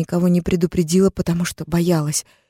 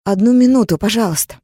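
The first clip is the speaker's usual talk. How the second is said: higher, louder desperate plea; pleading cry; 5 semitones higher, 6 dB louder than usual. Acted. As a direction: beg for a moment more. Begging for one minute.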